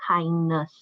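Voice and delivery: "kindness" said as KIND plus a light "nuhs"; pronunciation demo. Shown as a demonstration. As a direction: model the word "kindness" with a long "i" as in kind. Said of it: "we actually pronounce it as".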